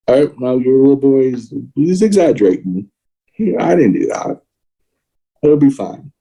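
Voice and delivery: a hint of a dismissive priest brushing it off; mocking priest. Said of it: "And especially pedophile priests".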